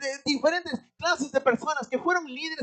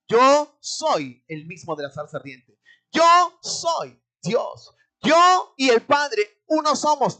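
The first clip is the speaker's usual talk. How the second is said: Jesus declaring; 5 dB louder, slower than usual. Acted. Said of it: "está diciendo".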